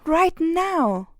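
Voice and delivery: high, sharp demand; yelled command. A narrator's reading. Hilary commands the bad guys, high and sharp. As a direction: finish the order with force. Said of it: "Hilary yelled".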